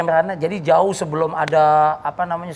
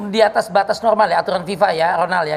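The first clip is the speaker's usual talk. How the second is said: football commentator. Pretend. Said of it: "kalian harus komentarin ala-ala komentator bola".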